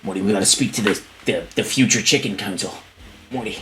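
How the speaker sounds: lightly voiced rambling scientist; a hint of a weary mad scientist; loosely imitated cartoon genius; Rick. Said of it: "I'd be like".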